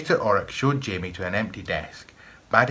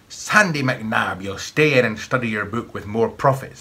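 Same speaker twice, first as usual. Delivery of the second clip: stern rebuke; 2 semitones higher, 5 dB louder than usual. Acted. Master scolds the weasel boy.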